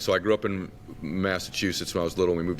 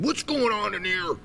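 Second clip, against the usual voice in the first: raised, drawn-out mock dad demand; storming-in dad; 12 semitones higher than usual. Dad coming into the kitchen, slow raised mock demand. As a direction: imitate a dad demanding answers. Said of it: "I hear my dad pounding his feet".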